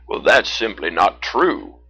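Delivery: loud, slow, firm bear; Teddy. A narrator's reading. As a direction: correct them kindly as a big bear. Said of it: "Teddy the brown bear replied".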